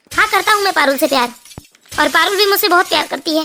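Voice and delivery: lightly voiced husband standing by his affair; a hint of a defiant confession. Narrator plays defiant husband. (पति का हल्का अभिनय, बेझिझक कबूलते हुए)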